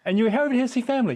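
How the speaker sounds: a cabbie who can't believe his ears; astonished taxi driver. Retold or imitated. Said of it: "just stops the car and goes".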